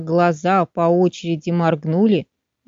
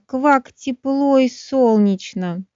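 slow froggy croak; 5 semitones higher, much slower than usual. Acted. Frog greets the sunny day.

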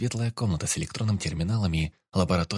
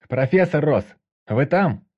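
muffled through walls; 6 semitones higher, 8 dB louder, slower than usual. A narrator's reading. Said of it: "приглушенный стенами голос".

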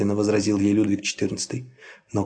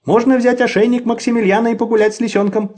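put-on bright pleading child; 11 semitones higher, 5 dB louder than usual. A narrator's reading. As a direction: ask like an eager kid. Child asks to walk fox.

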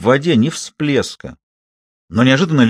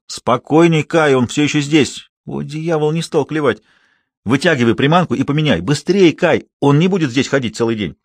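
urgent shouting; 4 semitones higher than usual. Acted. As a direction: call out the instructions. Urging across river. (рыбак кричит девочке через омут)

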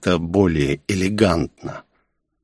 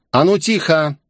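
sharp higher command to silence the crowd; commanding shout; 7 semitones higher than usual. A narrator's reading. Princess commands the girls' crowd, a sharp shout. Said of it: "мощный голос, словно гром".

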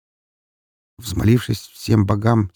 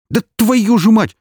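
high, loud, drawn-out curse; exasperated cry; 8 dB louder than usual. A narrator's reading. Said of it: "вскрикнул Бондаренко".

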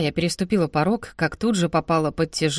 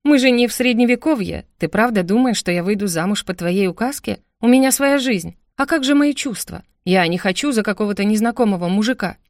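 raised, heated questioning; indignant protest; 2 semitones higher than usual. Acted. Sister defending her own life to brother, indignant. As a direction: argue back with rising outrage.

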